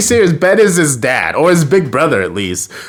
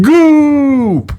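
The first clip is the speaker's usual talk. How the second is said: high, loud blobby monster yelp; loud squeaky creature call; Goop cry; 5 dB louder than usual. Pretend. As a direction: squeal the alien's name out loud. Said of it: "but I'll say it".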